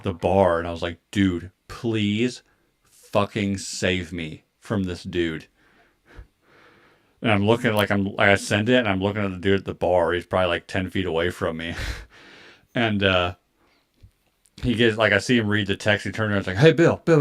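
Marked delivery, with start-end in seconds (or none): 1.1-5.5 quiet plea. Retold or imitated. Retold plea for rescue. 16.6-17.2 higher, mock call across a bar. Friend calls him over, acted.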